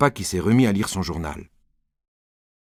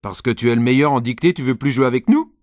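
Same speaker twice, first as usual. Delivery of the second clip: put-on louder, taunting boy's voice; jealous classmate; 4 dB louder than usual. Alceste teases Nicolas about his dictation, loud taunt. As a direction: tease him for being top.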